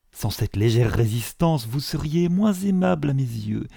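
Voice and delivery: lightly voiced self-important clergyman; pompous suitor. Suitor declaring himself to Elizabeth, lightly pompous. Collins makes his formal proposal.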